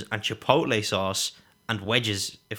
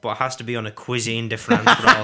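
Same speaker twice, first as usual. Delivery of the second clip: laughing while reading; 6 dB louder than usual. Real, not acted. Reading funny listener order.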